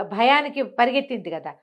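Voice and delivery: ordinary delivery, nothing marked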